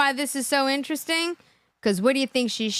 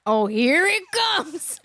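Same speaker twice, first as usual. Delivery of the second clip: knowing, here it comes; 2 semitones higher, much slower than usual. Real, not acted. Sensing the scam coming.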